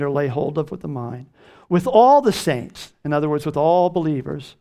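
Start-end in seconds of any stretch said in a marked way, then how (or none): 1.7-2.9 slow proclaimed phrase. Acted. Preacher proclaims scripture phrase.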